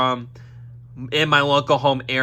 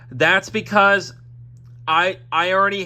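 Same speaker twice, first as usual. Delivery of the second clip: burping; 5 semitones higher, 3 dB louder than usual. Real, not acted. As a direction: push the words past a burp. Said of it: "So sorry about me burping there".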